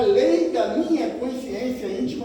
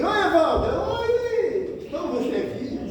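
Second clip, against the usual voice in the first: much higher, sugary smiling hello; friendly greeting; 10 semitones higher than usual. Pretend. Luiz greeting the preacher with a much higher beaming voice. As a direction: greet him all sweetness and smiles. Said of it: "abre um sorriso pra mim".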